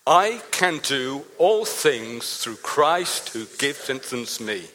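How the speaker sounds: loud, slow recital of the verse; group recital. Shown as a demonstration. Pastor leading the congregation in saying the verse aloud. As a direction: say the verse out together, slowly. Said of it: "Let's say it together".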